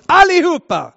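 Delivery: shouted repeat. Acted. Preacher to congregation, one shouted word. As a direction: hurl it out as the final punch. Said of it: "Allihopa fick den heliga".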